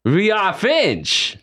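slow mock proclamation. Joking after French word.

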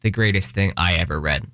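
dry, dropped-down sarcastic aside; deadpan sarcasm. Shown as a demonstration. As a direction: say it flat and mocking.

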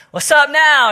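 high, loud mock taunt at the Texas fan. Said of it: "just start taunting him".

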